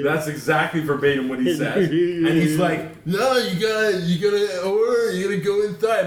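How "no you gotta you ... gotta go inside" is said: surfer dude worker. Retold or imitated. Drive-thru guy sending the customer inside, mock surfer dude. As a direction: imitate a slacker nineties surfer. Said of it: "He's like a nineties surfer dude".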